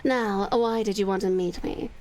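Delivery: low, menacing, drops to a whisper; a hint of a sinister vampire; vampire countess. Vampire countess threatening her visitor, low menace.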